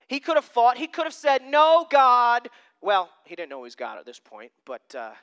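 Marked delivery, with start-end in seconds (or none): 1.4-2.5 higher, louder mock protest; loud refusal. Peter as he could have answered God, loudly refusing. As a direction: refuse outright, pushing the voice up.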